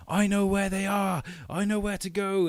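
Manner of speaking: brash boast in a put-on voice; cocky know-it-all. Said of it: "He's like".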